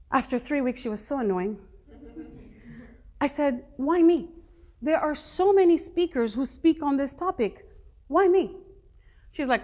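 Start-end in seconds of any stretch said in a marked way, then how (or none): 3.8-8.6 louder, pleading why me; exasperated protest. Retold or imitated. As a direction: push back, fed up and pleading.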